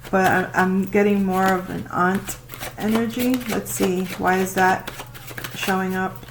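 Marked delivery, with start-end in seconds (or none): 4.2-6.2 flat robot voice, unintended; flat robotic monotone, like a machine. Real, not acted. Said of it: "I just sounded like a robot".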